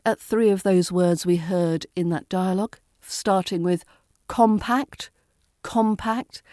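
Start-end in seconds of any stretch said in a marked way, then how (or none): 4.3-6.4 "compact" with weight on COM; first-syllable stress. Shown as a demonstration. Teacher modelling a dialogue word, first-syllable stress. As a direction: lean on the first part of "compact". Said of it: "stressing the first part of that word".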